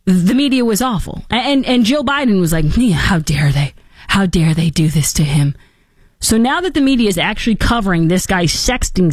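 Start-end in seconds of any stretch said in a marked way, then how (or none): 2.8-5.5 mock indignation. Mocking Biden's media defenders.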